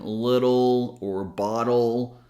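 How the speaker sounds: slow, "little" and "bottle" with tapped T; tap T before L. Shown as a demonstration. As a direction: draw out "little" and "bottle", tapping the T. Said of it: "It can also happen before an L".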